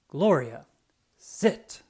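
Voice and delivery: firm command to a dog. Acted. Officer showing the children his dog obeys, firm command. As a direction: order the dog to sit.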